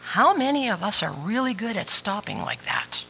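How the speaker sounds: whispered aside; breathy hushed question to the congregation. Real, not acted. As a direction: hush it right down to a whisper. Hushed aside about stopping.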